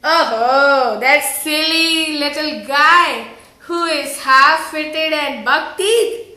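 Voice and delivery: scornful mother's taunt, stretched out; teasing. Acted. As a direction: tease her about a silly boyfriend. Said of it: "teases her boyfriend by saying".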